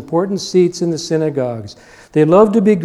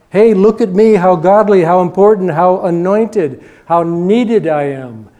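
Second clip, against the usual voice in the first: mock boast; 3 semitones higher, 5 dB louder than usual. Pharisees mocked as self-important.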